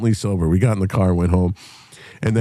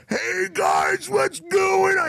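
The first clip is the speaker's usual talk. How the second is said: put-on very high, drawn-out drunk yell; drunken screaming; much slower than usual. Drunk drummer screaming hello at a gas station full of cops. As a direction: holler it like a wasted bandmate greeting the cops. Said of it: "he's fucking screaming on the top of it".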